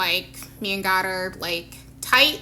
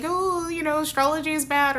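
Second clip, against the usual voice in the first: higher-pitched imitation of naysayers; mock disapproval; 4 semitones higher, 3 dB quieter than usual. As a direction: mimic a disapproving busybody lightly. Mimicking people who criticise astrology.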